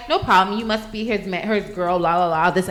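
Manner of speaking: easy, matter-of-fact self-quote; retold calm. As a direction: recount your own calm reply. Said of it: "I was calm".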